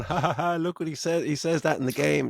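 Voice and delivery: hammed-up crowd delight with fake ha-has; mock cheering. Mocking cinema audiences cheering a game reference, mock delight. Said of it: "are there people cheering in the cinema".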